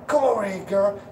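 high, happy calling voice; excited call to dog. Shown as a demonstration. Trainer calling a beagle over, high and cheerful. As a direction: call her over like it's the best news. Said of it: "You focus on praising your beagle".

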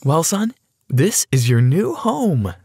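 high, drawn-out welcome squeal. A narrator's reading. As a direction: squeal it with delight, stretching the end. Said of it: "Emily squealed".

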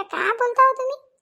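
a high, slow gossiping neighbor asking in disbelief. Acted. Neighbor woman exclaiming to her friends, high and slow. Same line, higher put-on voice.

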